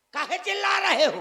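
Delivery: put-on irritated anger. Acting out a father snapping at his child, mock-angry. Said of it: "बड़ी गुस्सा में बोला करूंगा".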